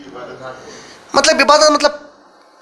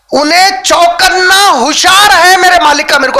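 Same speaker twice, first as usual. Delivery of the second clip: rising preaching; 4 semitones higher, 4 dB louder than usual. Acted. Preacher builds on slave's alertness.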